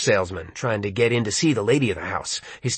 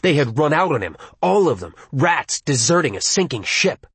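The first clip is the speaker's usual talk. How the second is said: rage. Acted. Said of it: "nearly total rage".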